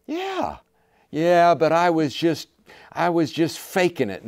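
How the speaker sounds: high, loud, slow defensive husband; whiny excuse. Acted. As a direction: protest that it was all fake. Husband's excuse voiced again.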